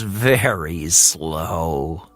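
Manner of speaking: slow, drowsy little bird; ready for bed; sleepy thought. Acted. Tired Hummingbird thinking before sleep, slow and drowsy. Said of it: "he thought".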